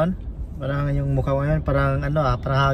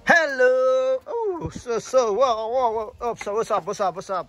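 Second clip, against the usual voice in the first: high excited hello to the dogs; talking to a dog; 7 semitones higher than usual. Real, not acted. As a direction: gush over the pets. Greeting the dogs at home. (masiglang kausap ang aso)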